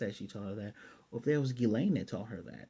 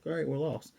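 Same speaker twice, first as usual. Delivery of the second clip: lightly raised pitch, no panic; matter-of-fact; 4 semitones higher than usual. Retold or imitated. Eris, lost in the forest, tells her companion matter-of-factly. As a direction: imitate a casual, untroubled admission. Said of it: "Very matter-of-factly, no panic or anything".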